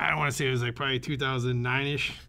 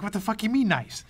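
high-pitched imitation of a panicky friend; mock alarm, pitch jumping up at the start; nervous wreck; 8 semitones higher than usual. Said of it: "is a nervous wreck".

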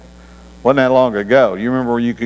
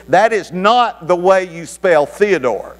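much higher, slow, snippy operator voice; snapping back; 9 semitones higher, slower than usual. Retold or imitated. Operator snapping back at the caller, much higher and snippy. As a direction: snap back, pitched up and prim. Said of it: "The operator snaps back".

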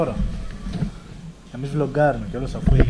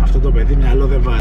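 loud mock telling-off; scolding parent; 7 dB louder than usual. Mock parental scolding of injured friend. (σαν θυμωμένη γιαγιά που μαλώνει)

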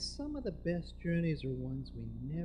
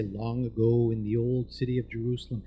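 low storytelling voice; recorded storyteller's voice; 5 semitones lower, 4 dB louder than usual. Retold or imitated. His CD playing during surgery, low storyteller intoning. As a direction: intone it like an old tale. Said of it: "I heard a voice say".

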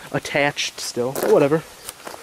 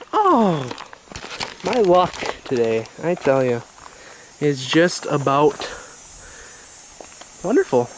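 sarcastic. Shown as a demonstration.

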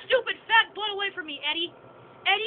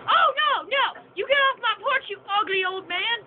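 excited yelling; 5 semitones higher, 3 dB louder than usual. Real, not acted. Yelling at game character.

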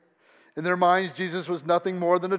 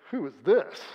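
puzzled rising question; 3 semitones lower than usual. Shown as a demonstration. Preacher showing the crowd's skeptical question. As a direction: ask it with a doubting lift on this. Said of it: "Or you could say".

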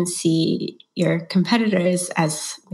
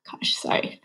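choked-up whispered apology; fighting back tears, barely voiced; teary whisper; 6 dB quieter than usual. Real, not acted. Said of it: "I'm getting teary-eyed".

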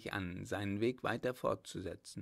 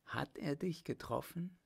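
higher, insistent, worried plea; urgent question; 6 semitones higher, 4 dB quieter than usual. A narrator's reading. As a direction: press anxiously for an answer. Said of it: "Sie fragte zum zweiten Male dringend".

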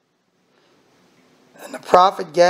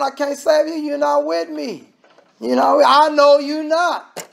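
preacher speaking as the Lord turning people away; the Lord's voice; 7 semitones higher than usual. Retold or imitated.

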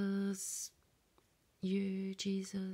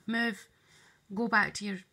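louder shooing commands, building; retold shouting; 5 dB louder than usual. Shooing the neighbour's dog away, loud building commands. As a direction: chase the dog out, voice rising. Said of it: "I said".

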